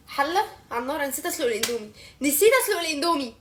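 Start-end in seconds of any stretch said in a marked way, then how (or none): 2.2-3.3 raised voice, hammed-up dismay; exasperated dismay. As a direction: repeat the mistake in louder mock horror. Repeats mistake in dismay. (بصوت أعلى وحسرة تمثيلية)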